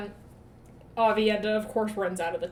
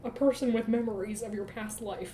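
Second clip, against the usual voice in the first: higher, louder exasperated rant; fed up and venting at him; a hammed-up, exasperated outburst; 6 semitones higher, 10 dB louder than usual. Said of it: "And Asmodean's like".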